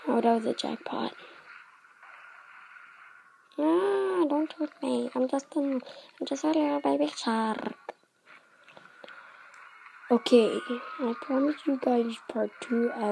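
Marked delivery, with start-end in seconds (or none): 3.6-7.7 higher, hammed-up plea for mercy; mock pleading. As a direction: play a helpless baby shark begging. Pleads as a helpless baby shark.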